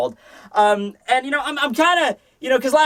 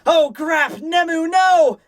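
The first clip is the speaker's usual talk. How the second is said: panicked shout; 9 semitones higher, much slower than usual. Acted. Mayuri screaming in panic as Nemu is run through, a high frantic yell. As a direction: shriek it out in alarm.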